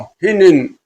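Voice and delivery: spoken mock neigh, falling at the end; imitated horse neigh. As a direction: voice a horse's "hinin" as a word. Narrator imitates the startled horse.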